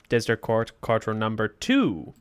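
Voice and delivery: measured, even courtroom announcer; formal court announcement. Acted. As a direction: open the court session formally, in a level voice. Reads game's court captions and opening.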